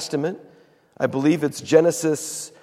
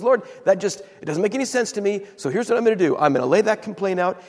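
higher-pitched, puzzled protest to God; Habakkuk complaining; 5 semitones higher, faster than usual. Retold or imitated. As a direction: voice a prophet airing his grievance. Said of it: "he complains to the Lord".

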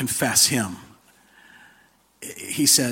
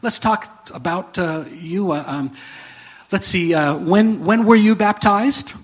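higher, louder mock clerk with a clipboard; angel clerk; 5 semitones higher, 3 dB louder than usual. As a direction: play the fussy gatekeeper angel checking him in. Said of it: "And they say".

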